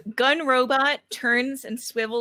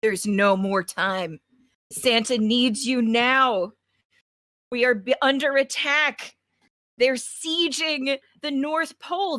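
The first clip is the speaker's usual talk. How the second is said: urgent message voice; 3 semitones higher than usual. Acted. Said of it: "on the page it says".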